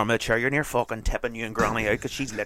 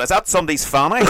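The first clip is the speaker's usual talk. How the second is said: laughing mock question; 7 semitones higher, 6 dB louder than usual. Mock overheard ASMR listener.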